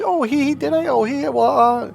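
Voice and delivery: very high mock tittering; giggly play-off. Friend confronted about her lies, giggly play-off. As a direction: imitate her flustered giggle, dodging the question. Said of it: "she would laugh and giggle".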